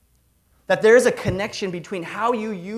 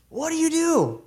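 much higher and louder, stress on you; emphatic repeat; 11 semitones higher, 4 dB louder than usual. Real, not acted. Pastor presses the congregation with the question again, emphatic and high. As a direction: press the question home, rising to a peak.

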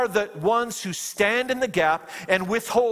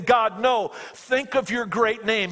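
mildly urgent plea, pitched higher; crying out; 4 semitones higher than usual. Retold or imitated. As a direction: imitate Moses pleading with God, a little raised. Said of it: "he's crying out".

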